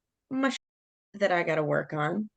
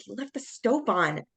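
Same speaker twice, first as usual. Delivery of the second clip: higher, accusing complaint; retold flare-up, pitched up in blame; big upset reaction; 5 semitones higher than usual. Speaker blaming partner for the stove, upset reaction. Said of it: "I had this big reaction towards him".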